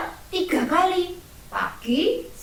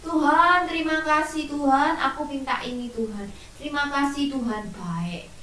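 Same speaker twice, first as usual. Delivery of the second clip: grateful prayer. Shown as a demonstration. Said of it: "Kalian berdoa dengan bersyukur".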